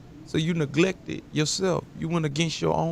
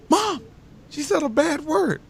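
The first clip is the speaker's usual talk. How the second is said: put-on much higher tattling child voice; imitating little boy; 13 semitones higher than usual. Little boy on the plane telling his mom, high childish tattle. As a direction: tattle like a five-year-old.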